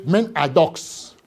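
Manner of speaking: slow, drawn-out mock quote of a bitter woman. Priest quoting a scornful woman, slowly. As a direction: drag it out like her complaint. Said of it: "your woman will say".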